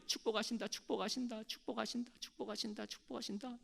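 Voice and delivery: echo. Retold or imitated. The mountain echoes the blessing, fading. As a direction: fade each repeat away. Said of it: "이게 열 번이 오는 거예요".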